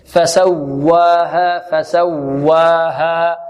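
"فسواها" chanted very slowly, leaning on the doubled waw; slow recitation with a pulse on the waw of "فسواها"; stress on doubled waw. Shown as a demonstration. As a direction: press the و in "فسواها". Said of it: "الواو المشددة والياء المشددة من مواضع النبر".

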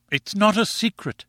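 high-pitched indignant cry; cried out. A narrator's reading. Wife answering her husband back, cried out. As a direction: protest in a high wifely voice. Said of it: "she cried".

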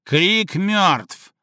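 Слик barking back at Крыщак; barked. A narrator's reading. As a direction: snap it back hard. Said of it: "рявкнул в ответ Слик".

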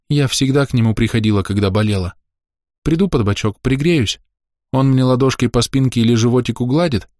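put-on a child remembering her grandfather fondly; a hint of a tearful little girl. A narrator's reading. Little girl voiced in story.

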